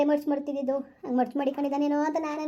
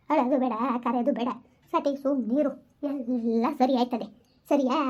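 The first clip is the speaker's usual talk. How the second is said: soothing comfort; 3 semitones lower, slower than usual. Acted. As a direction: gently hush her tears. Consoling the crying wife.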